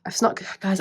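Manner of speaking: winded, short of breath. Real, not acted. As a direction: talk while catching your breath. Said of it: "I'm getting out of breath".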